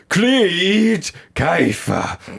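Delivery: high, very slow drawn-out spirit voice; imitating Derek's possession moan; possessed medium voice. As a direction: stretch the name out like a spirit speaking. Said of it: "like that".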